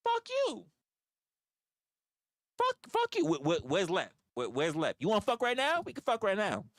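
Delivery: high, loud mock rage; hammed-up fighting yell; mock outburst. To viewers, acting out his own reply to critics, loud mock rage. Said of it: "I'm just like".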